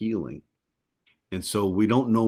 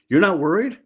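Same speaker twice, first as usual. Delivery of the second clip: imitating wife; 11 semitones higher, 8 dB louder than usual. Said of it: "she'd be like".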